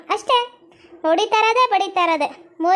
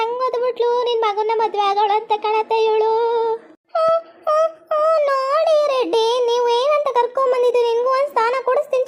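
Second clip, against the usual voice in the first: whiny new bride; 2 semitones higher than usual. Acted. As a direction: whine and threaten to die to win sympathy. Whiny new girl Sweety.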